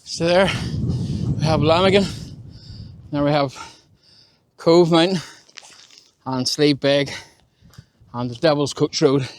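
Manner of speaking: breathless, words pushed out between breaths; puffing from the steep climb. Real, not acted. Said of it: "I'm out of breath".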